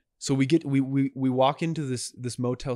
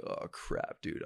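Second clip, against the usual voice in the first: hushed whispered dismay; 8 dB quieter, slower than usual. Retold or imitated. Getting out of the wrecked car, whispered dismay. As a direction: breathe it out under your breath. Realizing he crashed.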